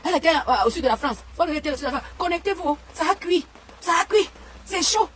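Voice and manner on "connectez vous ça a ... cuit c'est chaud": mocking imitation. Mocking Fleur de Lys' live call.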